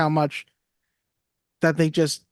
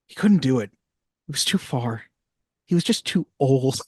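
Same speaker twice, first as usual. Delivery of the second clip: put-on sad boy; 3 semitones lower than usual. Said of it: "Peter going".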